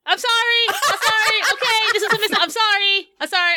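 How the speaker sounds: high, rushed apologizing; flustered apologies. Acted. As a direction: stammer out the apologies. Zelda apologizing in character.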